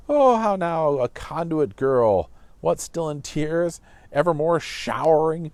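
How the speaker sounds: put-on fond, teasing old father, slowed; loud, playful fatherly teasing. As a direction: rib her gently like a doting dad. Teacher reads Capulet teasing Juliet.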